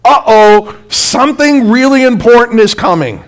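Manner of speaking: light uh-oh alert; a playful warning note; mock alarm. Shown as a demonstration. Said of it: "What should go off in your mind".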